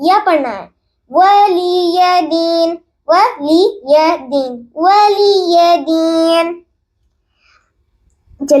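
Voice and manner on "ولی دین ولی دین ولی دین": ولی دین with ya stretched as valiya; reciting with zabar. Shown as a demonstration. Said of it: "یا کے اوپر زبر ہے". (ولی دین کو زبر کے ساتھ کھینچ کر پڑھیں)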